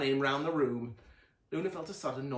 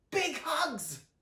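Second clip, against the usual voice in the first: higher, cheerful chorus call; the family answers together, cheerful higher cry; group cry. A narrator's reading. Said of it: "cried everyone except Luna".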